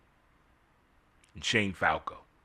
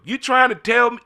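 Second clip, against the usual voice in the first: higher and louder, can't believe it; a louder, higher cry of disbelief; incredulous; 10 semitones higher, 5 dB louder than usual. Real, not acted. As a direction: demand an answer in disbelief. Disbelief at the show ending.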